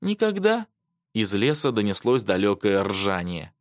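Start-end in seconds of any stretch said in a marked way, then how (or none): 0.0-0.7 high, forlorn little question; small plaintive voice, pitched up; dying voice. A narrator's reading. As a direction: ask in a child's despair. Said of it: "умирающим голосом спросила она".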